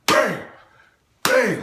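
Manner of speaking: high, sudden bangs; exclaimed blow sound effects; punch noises. Retold or imitated. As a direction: punch out each bang separately. Imitating repeated punches.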